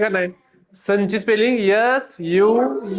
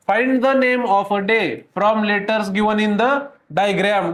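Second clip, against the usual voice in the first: slow reading aloud; much slower than usual. Shown as a demonstration. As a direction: read the English instruction very slowly. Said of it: "चित्रातील अक्षरांपासून एका दिवसाचे नाव".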